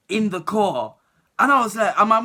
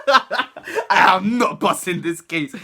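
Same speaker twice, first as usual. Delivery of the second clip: slow, drawn-out through laughter; laughing at my own hopeless case; laughing slowly; 3 dB louder, much slower than usual. Retold or imitated. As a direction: spell it out slowly while cracking up. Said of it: "In my head, I was like".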